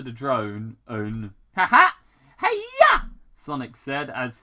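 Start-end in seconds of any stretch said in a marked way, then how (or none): 1.5-3.1 very high, loud triumphant cry; gleeful whoop. Acted. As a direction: whoop as you leap on. Sonic jumps onto the drone.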